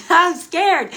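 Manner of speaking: laughing. Real, not acted. Admits fear while laughing.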